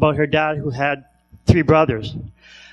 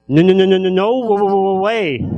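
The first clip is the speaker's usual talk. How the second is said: emphatic refusal. Retold or imitated. Doctor refusing, stuttering.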